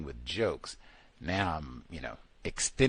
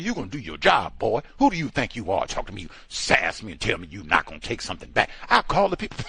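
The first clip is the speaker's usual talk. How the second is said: indignant customer; 4 dB louder, faster than usual. Retold or imitated. Caller voices the customer.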